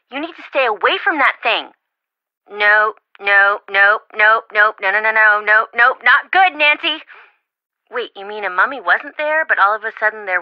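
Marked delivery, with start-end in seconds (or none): 2.5-7.0 panicked no's. Acted. Friend panics at bad news.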